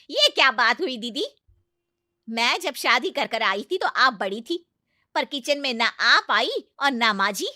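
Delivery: loud, high indignant complaint; indignant aunt-in-law. Acted. Aunt-in-law protests to the mother-in-law, loud indignant complaint. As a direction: take offence openly. Chachi flares up.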